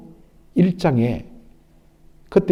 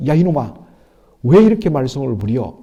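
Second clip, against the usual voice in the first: mildly raised scolding voice; mock angry scolding; 3 dB louder than usual. Preacher voicing a relieved parent scolding a child, mock angry. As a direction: act out a parent's brief flare of temper. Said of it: "벌컥 화를 내기도 하죠".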